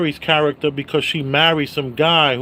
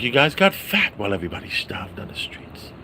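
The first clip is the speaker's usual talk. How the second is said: whispered Walken; 4 dB quieter, faster than usual. Retold or imitated. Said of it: "he's yelling at the gangsters".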